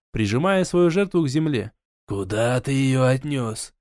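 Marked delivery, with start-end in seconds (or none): 2.1-3.7 whisper yelling. Acted. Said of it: "яростно прошептал волшебник".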